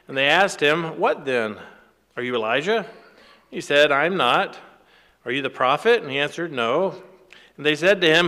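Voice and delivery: emphatic, measured Bible reading; scripture reading. Acted. Preacher reads John's testimony to congregation, emphatic scripture reading. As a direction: read the dialogue out firmly to listeners.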